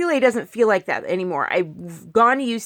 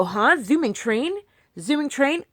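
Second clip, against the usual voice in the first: puzzled surprise; 5 semitones higher than usual. Retold or imitated. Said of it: "that I go".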